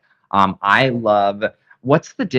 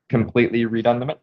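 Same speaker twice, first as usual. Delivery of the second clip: throat catching; 3 dB quieter, much faster than usual. Real, not acted. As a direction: voice catching mid-sentence. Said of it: "You okay over there?".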